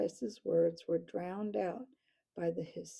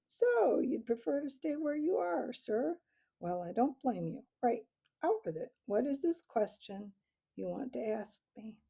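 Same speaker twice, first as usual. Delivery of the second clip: high swooping owl voice, amused and teasing; mocking owl captain; 5 semitones higher than usual. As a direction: toy with the little mouse. Owl captain mocks, then questions.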